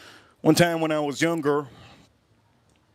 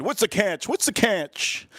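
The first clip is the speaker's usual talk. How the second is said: raised pitch, last one drawn out; mock incredulous questioning; 5 semitones higher, slower than usual. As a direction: replay wary amazement in a high voice. Acts out suspicious question in story.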